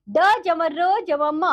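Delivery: letters spelled out slowly one by one; slow sounding out. Shown as a demonstration. Teacher slowly spells the letters for the children. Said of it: "क्या बन गया ये?".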